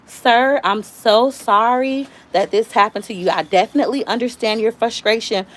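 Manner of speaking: lightly put-on customer service politeness; mildly acted professional sympathy; call-center agent voice. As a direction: apologize like a polite phone agent. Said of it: "at the call center job".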